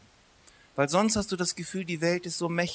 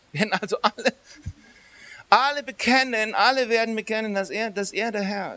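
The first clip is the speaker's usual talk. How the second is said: rising shout; 6 semitones higher, 5 dB louder than usual. Real, not acted. Preacher building to a climax.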